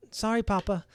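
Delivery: put-on high little-girl apology; a hint of a scolded kid; mild meek sorry; sheepish child.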